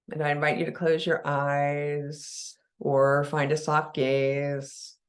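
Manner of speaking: unhurried meditation guide with long pauses between phrases; guided meditation. Real, not acted. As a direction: ease listeners into relaxing, leaving long silences.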